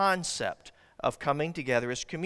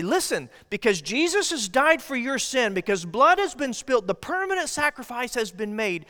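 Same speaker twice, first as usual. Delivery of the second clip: raised, louder preaching voice; impassioned proclamation; 6 semitones higher, 5 dB louder than usual. Acted. Preacher proclaiming God's invitation to the congregation with fervour.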